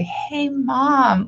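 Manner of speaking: a hint of stilted casual voice; lightly stiff, trying to sound casual; stiff awkward speech. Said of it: "like that weird stunted, stilted voice".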